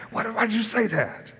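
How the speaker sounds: high, quiet exasperated mock complaint; a put-upon whine at a friend who spoke out of turn; annoyed disciples. Disciples grumbling at Peter, high and quiet.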